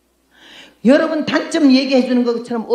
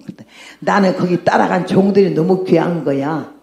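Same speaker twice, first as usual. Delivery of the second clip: ordinary talk, nothing marked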